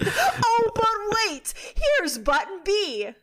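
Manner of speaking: high, laughing through the words; giggly high voice, breaking into laughter. Real, not acted. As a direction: crack up while talking. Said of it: "laugh cry".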